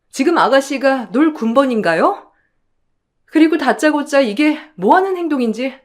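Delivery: indignant, firm rebuke ending in a forceful dismissal; restrained anger, getting firmer; angry daughter-in-law. Acted. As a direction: stand up to an in-law, politely but crossly. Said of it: "정말 화도 나고 손이 떨리더라고요".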